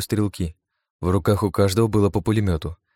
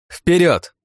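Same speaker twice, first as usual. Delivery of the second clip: high, loud war cry; triumphant shout; 10 semitones higher, 6 dB louder than usual. Acted. Anna to her passengers: loud triumphant yell. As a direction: yell it as she floors the gas.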